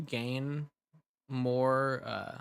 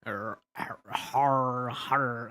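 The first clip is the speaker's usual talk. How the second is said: attempted growl; 4 dB louder, much slower than usual. Shown as a demonstration. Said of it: "I don't have the graveliness in my voice".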